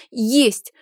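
put-on a boy insisting the monster is real; agitated cry. A narrator's reading. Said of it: "возбуждённо выкрикнул мальчик".

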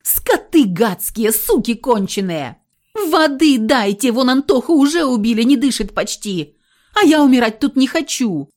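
loud, high, raging screams; furious yelling. A narrator's reading. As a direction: scream at the door while kicking it. Girl kicking door, raging.

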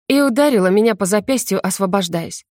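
ordinary delivery, nothing marked

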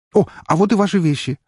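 high, relieved exclamation; relieved delight. Acted. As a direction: brighten up with relief. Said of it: "обрадовался доктор". (врач радуется медсестре)

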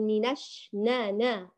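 نا with a wide-open a; clear, open naa in نا; open jaws. Shown as a demonstration. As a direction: open up the vowel in نش and نا. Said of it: "باعدي ما بين الفكين".

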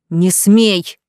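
sharp loud cry; loud angry warning; shouted. Acted. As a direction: shout it to stop her cold. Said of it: "выкрикнул Саид".

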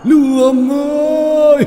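very high, slow drawn-out taunting call; demon's mocking call. A narrator's reading. Demon taunting Lương from outside, very high slow call. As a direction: draw the name out to lure him out. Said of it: "nó rít lên".

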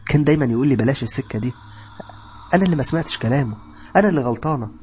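tearful regret. Acted. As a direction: grieve for her father through tears. Sara crying about her father.

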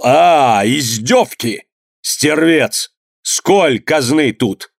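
a touch of a raging master, slow at the end; furious shout. Acted. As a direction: rage at the man on the rack. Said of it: "Он кинулся к козлам и крикнул". (яростный крик хозяина)

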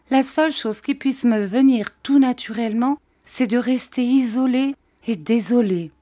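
high-pitched self-pitying complaint; woeful. A narrator's reading. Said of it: "avec l'accent le plus lamentable".

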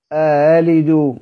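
slow أألد with the second hamza melted; eased hamza. Shown as a demonstration. Teacher repeats the eased model, softened hamza in أألد. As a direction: glide over the second hamza in أألد, unhurried. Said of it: "هنطقها إزاي مسهلة؟".

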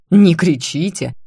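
angry rector flinging it back; indignant outburst. A narrator's reading. Angry rector repeats outraged. (возмущённо, громче)

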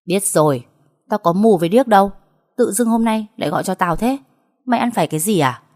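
brusque, annoyed retort with lifted pitch; lightly acted exasperation; irritated older sister. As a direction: answer the kid with impatient scorn. Irritated sister answers the call.

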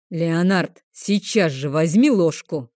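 a dragon's voice filling the dining room; mild booming rebuke; booming command. Acted. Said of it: "громыхнуло на всю столовую".

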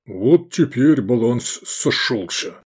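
slow, self-satisfied summing up. Acted. Gefestai satisfied after the last kill. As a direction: savour it like closing the books. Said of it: "сказал Гефестай удовлетворённо".

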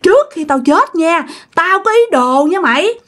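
high-pitched, gloating ghost confession; acted spirit's menacing reveal; vengeful taunting. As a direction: taunt her with your secret curse, pitch soaring. Spirit reveals hairclip haunting.

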